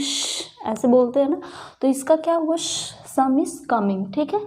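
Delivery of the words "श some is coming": slow hush. Shown as a demonstration. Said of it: "teachers क्या बोलती हैं".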